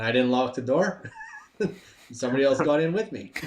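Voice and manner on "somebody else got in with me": laughing through the memory; chuckling as he admits the mistake. Real, not acted. Trainee laughing about the car scenario he failed.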